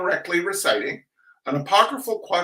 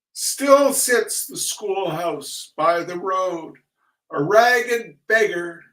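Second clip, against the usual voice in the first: slow, lilting recital, higher on the opening lines; school poem recitation; 3 semitones higher, slower than usual. Acted. Reciting the schoolhouse poem, sing-song recital. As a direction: declaim it like a kindergarten recital.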